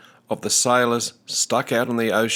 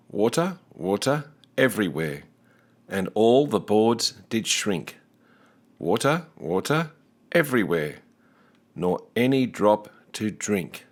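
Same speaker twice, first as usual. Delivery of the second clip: poem recital. Acted. Teacher reciting the sailors' poem for the class. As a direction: recite it with a sing-song rise and fall.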